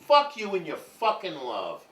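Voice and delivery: hammed-up furious brush-off; mock angry rejection. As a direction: bite out each word slowly and loudly. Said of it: "That's much realer".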